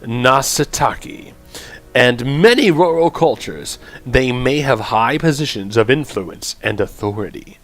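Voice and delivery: measured, projected read-aloud; clear, deliberate narrator delivery; game text narration. Acted. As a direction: narrate it like a game guide entry.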